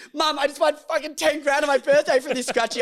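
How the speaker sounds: high, loud sing-song gloating; mimicking a thrilled son telling his mum; retold excited sing-song. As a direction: chant it like you can't believe your luck. Boyfriend phones mum, retold.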